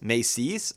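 "may cease" with weight on "cease"; light "may", stressed "cease"; iambic stress. Shown as a demonstration. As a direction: lean on the second word of "may cease". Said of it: "unstressed, stressed".

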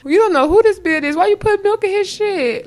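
high, loud indignant demand; acted outrage. Host scolds the woman in the song over milk, mock outraged.

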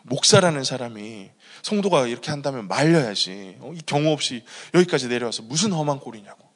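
mildly imitated indignant telling-off; indignant scolding. In-laws scolding the visiting pastor, mildly angry. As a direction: retell their reproach with a touch of anger. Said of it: "서서 욕을 먹었습니다".

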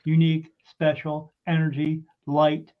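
words spaced out slowly, lightly robotic; mild imitation of a machine spitting out words; computer voice. Spirit box reading out words one by one, lightly imitated computer voice. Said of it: "in that computer voice".

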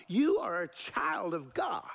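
hushed and slow, breathy with air; whisper. Real, not acted. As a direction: lean in and whisper it to them. Pastor whispers to congregation.

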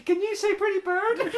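high, laughing through the words. Retold or imitated. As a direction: crack up mid-line. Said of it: "And he's going".

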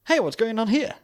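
high, loud posh English voice; mock cop in posh English. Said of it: "not a posh English one".

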